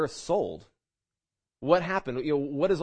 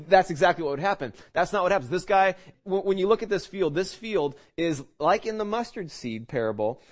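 ordinary delivery

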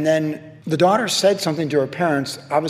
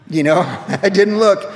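louder, chuckling confession; laughing admission; 3 semitones higher, 5 dB louder than usual. Real, not acted. Pastor owning his mistake to the congregation, laughing. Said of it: "Actually, I, I didn't".

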